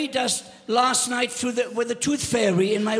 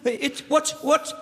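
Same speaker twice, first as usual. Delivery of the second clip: hammed-up breathless panic, higher; mock panic; 5 semitones higher than usual. Grandpa to Eva as the fairy dust hits, mock panic. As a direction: gasp it out like the air is leaving you.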